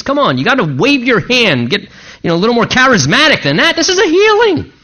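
mock-theatrical demand; mocking demanding Naaman. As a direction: ham up a proud man wanting drama. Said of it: "he says".

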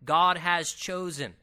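GOD HAS CHOSEN slow and firmly weighted; emphatic repetition. Shown as a demonstration. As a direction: drive home GOD HAS CHOSEN, unhurried. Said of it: "it's there for emphasis".

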